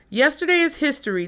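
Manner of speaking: put-on bright, quick Valley girl lilt; ditzy Valley girl delivery. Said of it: "In my white Valley girl voice".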